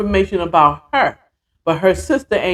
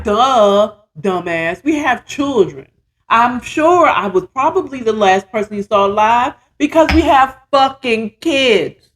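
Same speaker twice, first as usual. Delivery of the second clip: mock-exasperated, pitch jumping up; scornful retort; 4 semitones higher than usual. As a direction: answer like it's painfully obvious. Acts her scornful retort to officer.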